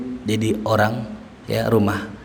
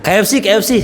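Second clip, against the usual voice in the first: whiny request; 7 semitones higher, 4 dB louder, much faster than usual. Retold or imitated. Wife begging for KFC.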